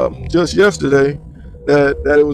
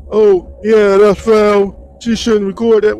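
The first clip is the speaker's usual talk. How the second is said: mocking; 3 semitones higher, 3 dB louder, slower than usual. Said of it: "Last dude was talking like".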